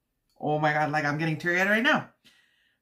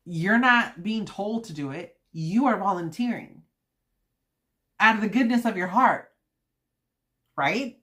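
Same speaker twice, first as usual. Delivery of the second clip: louder, fast indignant lecture; ranting; 4 semitones higher, 5 dB louder than usual. Real, not acted. Rant to viewers about used gifts, louder and fast. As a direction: scold them for their stinginess. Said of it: "I had to rant".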